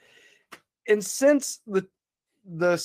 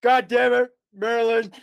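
raised, exasperated cursing at the absent wife; higher-pitched retold panicky rant; dad freaking out; 5 semitones higher than usual. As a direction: rant like a desperate dad who badly needs the toilet. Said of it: "freaking out".

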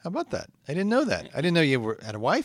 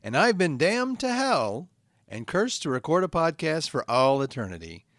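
slow, earnest host monologue; podcast host intro; slower than usual. Acted. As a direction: inspire the damned listeners, slowly.

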